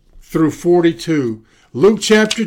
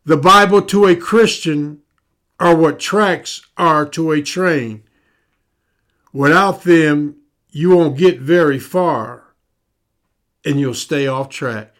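slower, weighing each phrase; deliberate slower repeat. Shown as a demonstration. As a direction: lay it out slowly so it sinks in. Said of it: "Let me say that again, a little bit slower".

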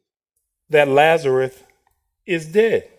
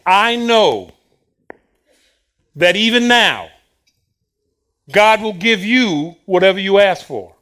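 louder, pressing insistence; Martha's insistent words; 5 dB louder than usual. Retold or imitated. Preacher voicing Martha, loud and insistent. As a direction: insist on every word like Martha. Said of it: "The words Martha spoke".

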